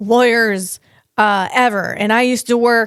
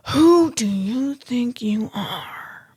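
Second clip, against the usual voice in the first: whispered challenge; 4 dB quieter, slower than usual. Acted. Confronting the imagined lawyer.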